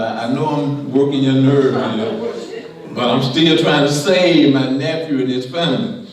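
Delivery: chuckling, sheepish Abraham; laughing paraphrase. Retold or imitated. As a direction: laugh while pleading with God. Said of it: "He's like".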